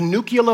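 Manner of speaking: "nuclear" said as NOO-kyuh-luh; mispronounced "nuclear". Retold or imitated. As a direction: imitate the slip, "nuclear" as nucular. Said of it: "he had that accent as well".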